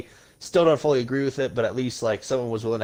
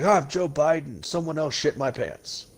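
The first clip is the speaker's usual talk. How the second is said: Biden impression; 3 semitones higher than usual. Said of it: "he'll be like".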